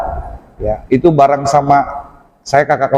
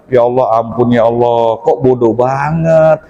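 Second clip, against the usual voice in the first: rueful self-reproach; 4 semitones lower than usual. Retold or imitated. Acts out self-reproach during exam.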